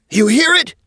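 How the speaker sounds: angry high-pitched shriek; Sticky Toes. A narrator's reading. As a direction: shriek it like an outraged tree toad. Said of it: "he shrieked".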